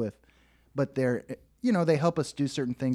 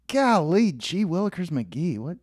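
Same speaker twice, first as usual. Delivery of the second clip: put-on old-timey voice; 4 semitones higher than usual. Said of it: "funny to just be like".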